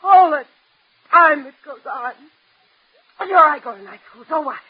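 tearful, broken-up complaint; crying. Acted. Daughter upset about school, work and her looks, crying. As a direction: force the words out between halting, tearful breaks. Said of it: "Stop crying like that".

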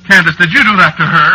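horrified. Acted. Husband horrified at wife's spell.

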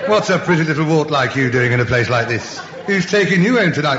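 loud oily seducer; smarmy chat-up. Acted. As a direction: woo it like a lounge lothario. Chat-up lines to wart.

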